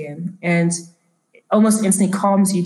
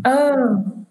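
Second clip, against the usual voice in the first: put-on higher, drawn-out old woman; elderly woman; 5 semitones higher than usual. Elderly woman realizing nobody understands her, lightly voiced. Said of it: "She's like".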